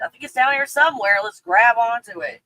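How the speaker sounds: playacting a frantic search; mock searching. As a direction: act out rummaging for something. Acting out digging for peace.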